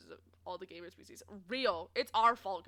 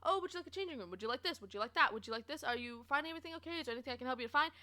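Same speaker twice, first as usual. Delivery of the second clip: pushy salesclerk voice; much faster than usual. Retold or imitated. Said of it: "pester and be like".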